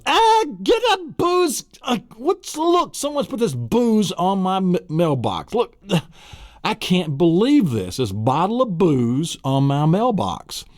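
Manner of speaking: high, squeaky put-on complaining voice; outraged neighbour in a high falsetto; mock yelling neighbour. Finding booze on his mailbox, squeaky outraged yell.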